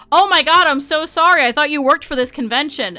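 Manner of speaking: startled apology. Retold or imitated. Girls apologizing to the vlogger, loud startled sorry. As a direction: gasp out an embarrassed apology.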